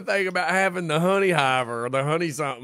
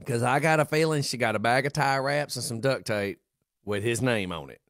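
lower, grave mock warning; mock serious; 10 semitones lower, 5 dB quieter than usual. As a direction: play it deadpan serious. Mock announcement to listeners.

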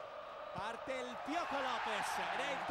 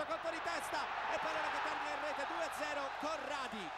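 excited goal call; 3 semitones higher, 4 dB louder than usual. Real, not acted. Goal call in live commentary.

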